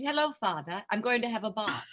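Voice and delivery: lightly put-on proper British English; British accent. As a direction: greet your father in imitated British English. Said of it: "a British accent".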